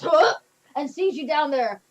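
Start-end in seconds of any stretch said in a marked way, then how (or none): 0.0-0.3 put-on louder startled old-man huh. Old man turning, startled by the players. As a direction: snap round, startled. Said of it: "the old man turns and goes".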